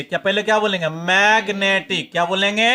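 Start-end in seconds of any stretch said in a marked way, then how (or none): 0.9-2.1 मैग्नेटिक said slowly, syllable by syllable; careful pronunciation. Shown as a demonstration. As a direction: spell out मैग्नेटिक slowly for the class. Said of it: "आप इसको पढ़ने का थोड़ा सा उच्चारण समझ लिए". (मैग्नेटिक धीरे-धीरे साफ़ उच्चारण)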